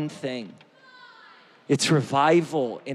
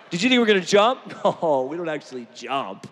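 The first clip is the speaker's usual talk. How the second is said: laughing tease. Real, not acted. Pastor teasing the congregation, laughing. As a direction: tease them through a laugh.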